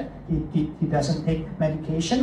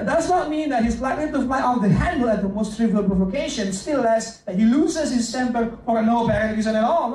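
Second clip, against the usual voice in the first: quicker reread, laughing through it; 4 semitones higher than usual. Real, not acted. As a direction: read it again, chuckling at yourself. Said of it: "Okay, a bit slow there".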